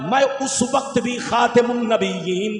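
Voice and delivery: rhythmic, chant-like sermon with stretched key words; declamatory preaching. Real, not acted. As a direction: proclaim sacred words to a congregation. Preaches the hadith translation rhythmically. (लयदार, जोशीली तक़रीर)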